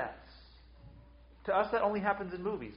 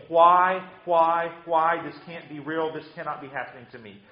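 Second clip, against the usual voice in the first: loud anguished cry of why, falling to a broken murmur; lament scream; 7 dB louder than usual. Acted. Preacher voicing a grieving mourner, loud cry then fading disbelief. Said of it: "all you can do is just scream".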